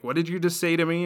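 mildly hammed-up anger; Katara, mad. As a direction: act out offended disbelief. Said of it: "Katara gets very mad".

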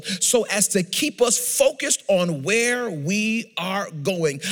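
measured, emphatic pulpit delivery; preaching. Real, not acted. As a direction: preach it with drawn-out key phrases. Preaches the text.

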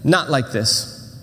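slow, firm fatherly warning; a hint of a stern father, drawn out slowly; slow firm dad. Father stopping the bullies, slow and firm. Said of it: "my dad said".

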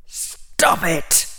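ordinary delivery

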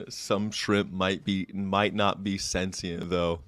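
soft, slow aside; quiet repeat. Real, not acted. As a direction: say it again under your breath.

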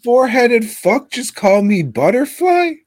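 very high, annoying mock voice; exaggerated high-pitched impression of an annoying talker; Quentin Tarantino. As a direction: put on a squeaky, irritating indignant whine. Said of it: "he's got a much more annoying voice".

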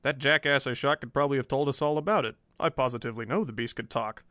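usual speaking voice

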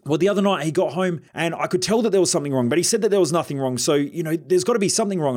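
lightly voicing a suspicious friend; mock worried friend.

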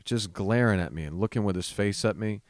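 normal talking voice

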